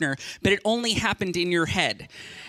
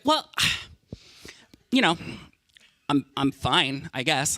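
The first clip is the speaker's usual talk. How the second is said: sulky sigh; 6 semitones lower than usual. Retold or imitated. Girlfriend sighing to her partner that she is fine, mock sulky. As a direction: play the wounded girlfriend with a sigh.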